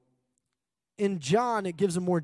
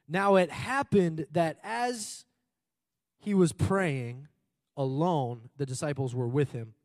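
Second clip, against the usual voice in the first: slow reading; 3 dB louder, slower than usual. Real, not acted. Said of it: "I'm gonna actually read this part".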